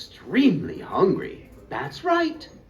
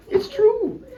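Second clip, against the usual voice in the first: laughing; 6 dB louder than usual. Real, not acted. Laughing affirmation.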